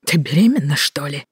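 suffering groan. Acted. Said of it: "страдальчески простонал Роман".

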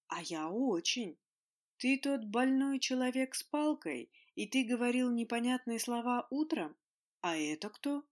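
a hint of a friendly curious dragon; lightly voiced dragon lady. A narrator's reading. Dragon lady speaks broken Russian.

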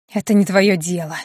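hissing feral vampire. A narrator's reading. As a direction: hiss it like a vampire. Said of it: "зашипел вампир".

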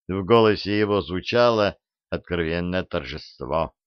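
ordinary delivery

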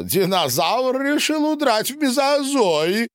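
high, loud gleeful cry; high patient voice. A narrator's reading. Boris shouts gleefully with the ball in a high voice. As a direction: crow it out in a high voice.

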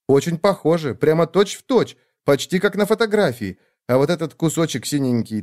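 a caring sister who won't take no; bossy little sister. Acted. Sister praising the painting.

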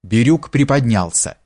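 ordinary delivery, nothing marked

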